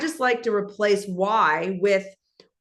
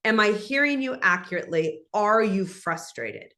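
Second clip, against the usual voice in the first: gently name their feeling back to them; steady reassuring coach voice; calm empathic check-in. Shown as a demonstration. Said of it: "So I might say".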